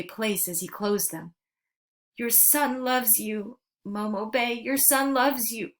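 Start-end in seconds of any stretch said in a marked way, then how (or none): 2.2-4.5 sobbing. Acted. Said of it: "he sobbed". 4.5-5.7 sobbing. Acted. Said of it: "he sobbed".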